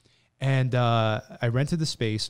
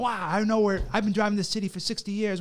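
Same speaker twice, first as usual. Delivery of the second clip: higher, mock-offended old-timer; indignant old man; 8 semitones higher than usual. Old friend dismisses the GPS, mock indignant scoff. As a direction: scoff at the GPS like a grumpy elder.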